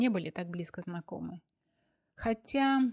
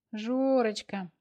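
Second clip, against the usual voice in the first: a hint of a whining little girl; whiny little girl; 3 semitones higher, 4 dB louder, much slower than usual. Anya on the phone to Georgy, lightly childish whine. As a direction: wheedle his name like a small child. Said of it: "маленькой девочкой законючила Аня".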